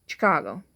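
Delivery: "Chicago" as shi-KAH-go; correct pronunciation. Shown as a demonstration.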